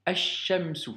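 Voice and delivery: Ash-Shamsu, shin doublé sans L; Ash-Shamsu avec assimilation du lam; liaison solaire. Shown as a demonstration. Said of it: "Donc tu fais la liaison". (prononciation arabe modèle)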